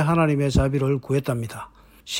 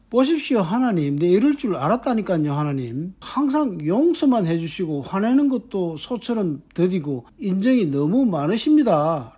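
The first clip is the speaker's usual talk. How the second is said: sarcastic complaint. Retold or imitated. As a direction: needle God with ironic praise. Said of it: "라고 비꼬는 요나입니다". (비꼬듯 빈정대는 말투)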